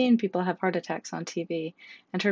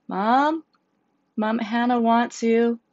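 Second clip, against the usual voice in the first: higher, louder call through a door; 5 semitones higher, 6 dB louder, slower than usual. Acted. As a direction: call slowly to wake her mother. Child calling mother at night.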